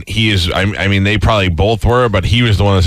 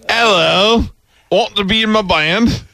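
impression of a band member; 8 semitones higher, slower than usual.

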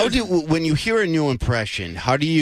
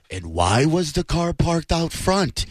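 Dateline narrator; slower than usual. Retold or imitated. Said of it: "the guy who does all those".

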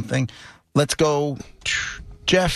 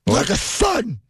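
Ivan Drago voice; 10 semitones higher, slower than usual. Retold or imitated. Drago impression quote.

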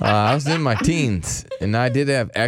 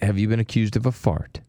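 low mock-solemn catchphrase; deep, deadpan question; mock-serious interrogation; 6 semitones lower than usual. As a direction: drop low as if asking something grave.

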